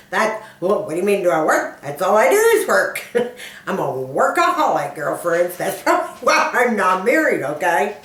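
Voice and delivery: laughing through the words; amused disbelief. Real, not acted. Self-declared workaholic to her girlfriends, laughing. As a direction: laugh at the very idea, lively and incredulous. Laughs at being asked about working.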